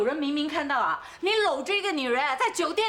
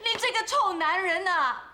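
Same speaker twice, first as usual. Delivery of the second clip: crying accusation. Acted. Wife accuses husband of cheating.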